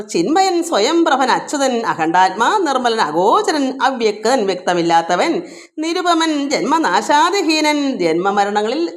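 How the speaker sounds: slow, measured recital of the verse; verse recitation. Acted. Teacher returning to the verse for devotees, slow recital. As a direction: lay out each name of God deliberately.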